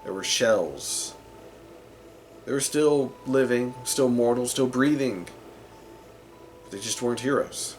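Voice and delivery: dramatic fantasy storyteller, with weighted pauses; story narration. Acted. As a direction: tell the heroes' fall in measured phrases. Narrates a dark fantasy backstory.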